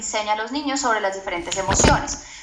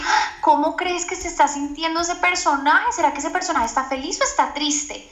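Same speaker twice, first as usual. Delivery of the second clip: gentle parent question; 4 semitones higher than usual. Retold or imitated. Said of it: "le puedo decir".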